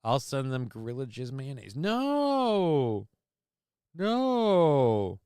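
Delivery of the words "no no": high shouted no; loud yelled protest. Acted. Mock horror at gross gift.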